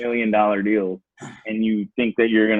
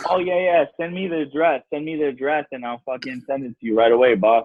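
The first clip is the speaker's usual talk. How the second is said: mock eager Andrew. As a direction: fake keen to string him along. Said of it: "first he was like".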